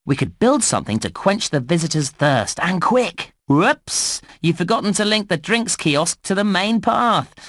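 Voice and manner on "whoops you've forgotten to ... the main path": higher-pitched oops at a slip; surprised alert. Acted. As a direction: flag the mistake in a high, surprised voice. Game voice flags player's mistake.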